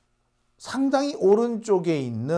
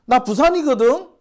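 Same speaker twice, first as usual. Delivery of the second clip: indignant, higher and louder protest; riled up; 8 semitones higher, 4 dB louder than usual. Real, not acted. Telling viewers he is from Gyeongsang, heated. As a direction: insist on it, fuming. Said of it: "화딱지나".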